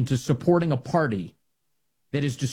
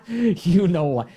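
laughing repeat; 5 semitones higher, 3 dB louder, slower than usual. Real, not acted.

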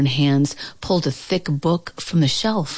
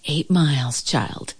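croaking. Acted. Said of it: "Grandma croaked".

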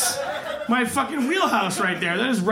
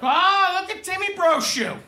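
mocking friends; 4 semitones higher than usual. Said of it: "they think I'm some kind of fucking baller".

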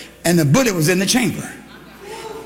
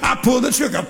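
ordinary talk

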